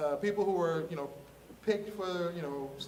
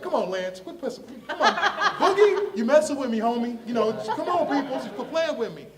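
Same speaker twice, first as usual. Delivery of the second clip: loud, high comic protest; worked-up, pitched-up incredulous scolding; prank-call disbelief; 6 semitones higher, 8 dB louder than usual. Retold or imitated. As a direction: plead with the prankster to quit, half laughing. Accusing caller of a prank.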